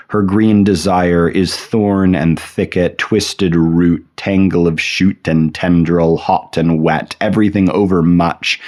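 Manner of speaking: measured, savoring poetry recital; poem reading. Acted. Lecturer sharing a poem about a green paradise, measured poetry reading. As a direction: read the verse aloud, lingering over each phrase.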